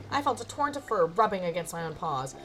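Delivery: vivid narration building to disaster; dramatic story narration. Acted. Narrator describes mice wrecking the room, dramatic. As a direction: build the chaos toward the last sentence.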